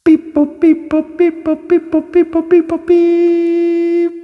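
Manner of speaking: very high robotic beep boop chant. Acted. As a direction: chirp like a little robot. Robot sound transition.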